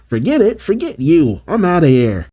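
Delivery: high-pitched huffy outburst, easing down; indignant quitting. Acted. Bean quitting on Fang as he detaches, indignant.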